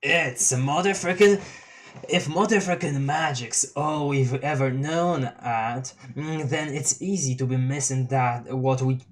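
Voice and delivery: lightly voiced stoned clown; Gamzee voice. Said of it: "Gamzee Tavros convo".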